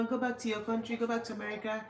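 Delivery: put-on complaint of a disgruntled commenter; mimicking iffy commenters. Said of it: "they were just iffy about it".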